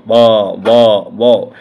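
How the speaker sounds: ব attempted without letting the two lips touch, coming out malformed; lips held apart. Shown as a demonstration. Teacher showing students that lip sounds fail without lips, ব said open-lipped. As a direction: say ব in separate tries, lips kept open. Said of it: "দুই ঠোঁট লাগবে না".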